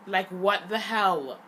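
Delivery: a sudden loud, angry blurt; real angry outburst. Real, not acted. Girl venting to her viewers, blurting out in real anger. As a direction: let the frustration burst out loud. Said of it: "Like, I'm so pissed".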